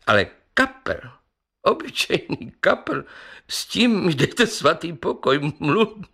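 high, stumbling words through laughter; mock him, breaking up at mluvící; laughing. Councillor mocking the talking carp, laughing. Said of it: "a rozesmál se znova".

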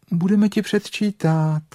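high, smiling reassurance. Acted. Rabbit consoles the stuck bear, high smiling voice. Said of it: "řekl králíček s úsměvem".

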